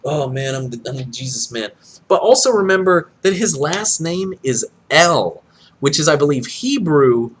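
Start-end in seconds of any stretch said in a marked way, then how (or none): 0.0-1.7 quiet, fast, spaced-out mock mumble; dazed mumble. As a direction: mutter it like a stoned guy. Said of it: "he looked like this".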